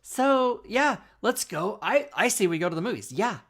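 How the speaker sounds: high-pitched Valley girl imitation; mock California Valley girl lilt. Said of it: "she talked like a Valley girl".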